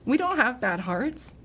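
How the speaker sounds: lightly imitating a worried little boy; child's voice. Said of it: "Mason goes".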